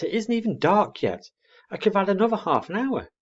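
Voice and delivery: father owl grumbling at his owlet; a touch of grumpy father owl. A narrator's reading.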